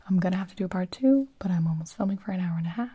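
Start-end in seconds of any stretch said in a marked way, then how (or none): 0.1-1.3 whispered. Real, not acted.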